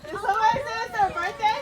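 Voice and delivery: excited sing-song call. Real, not acted. Louder repeat at door.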